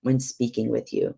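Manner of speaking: calm, measured, owning the fault; sincere apology. Shown as a demonstration. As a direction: demonstrate a repentant, earnest apology. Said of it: "This is what that would look like".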